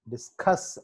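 డిస్కస్ with the stress on "cuss"; teacher's డిస్కస్, weight on "cuss". Shown as a demonstration. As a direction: hit the second syllable of డిస్కస్. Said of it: "సి దగ్గర".

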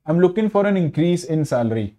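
increase read slowly as the noun, IN stressed; slow example, lean on IN in increase. Shown as a demonstration. Teacher reading the noun example, increase stressed on IN. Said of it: "हम आईएन पे ज्यादा stress डालेंगे".

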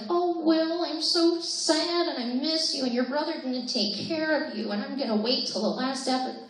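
a hint of a high, mournful mother; lightly voiced sad mother; Winona Ryder impression. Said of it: "sitting through my impersonations".

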